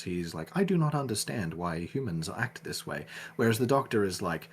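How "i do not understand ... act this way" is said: lightly voiced robotic android; a hint of a stiff android. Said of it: "Data talks like a robot".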